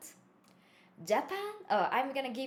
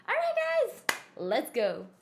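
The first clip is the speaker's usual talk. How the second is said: high, loud rallying cry to the viewers; excited call; 8 semitones higher, 5 dB louder than usual. Real, not acted. Rallying her viewers before the lesson, loud and excited. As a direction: pump the audience up.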